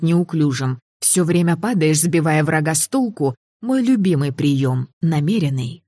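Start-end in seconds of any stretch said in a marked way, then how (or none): 5.0-5.8 self-mocking. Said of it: "конечно, намеренный".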